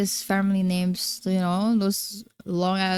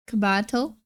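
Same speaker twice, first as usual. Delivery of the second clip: Cabato with an American flat a, kuh-BAT-oh; anglicized Cabato, aspirated k; American accent. Retold or imitated. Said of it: "their family names in such a American accent".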